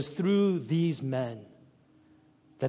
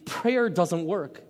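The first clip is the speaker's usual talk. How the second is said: "prayer doesn't work" drawn out slowly and flatly; slow doubter; 3 semitones higher, slower than usual. Retold or imitated. Preacher voicing a doubter concluding "prayer doesn't work", slow and deflated. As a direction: let each word of "prayer doesn't work" drag, deflated. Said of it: "and say".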